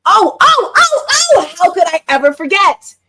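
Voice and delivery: high, loud exclamation; sudden remembering. Real, not acted. Mom suddenly recalling the party, high surprised outburst. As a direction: burst out as it hits you.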